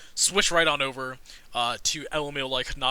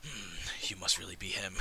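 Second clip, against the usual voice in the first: low, quiet pondering; subdued, as if thinking aloud; musing acceptance; 7 semitones lower, 9 dB quieter than usual. Acted. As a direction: mull it over under your breath. Gatekeeper dwarf decides to believe him.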